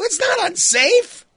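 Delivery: high, loud, slow protest; protesting dad. Retold or imitated. Dad overruling his wife, high, loud and slow. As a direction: cry out the denial, stretching it. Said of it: "And I go".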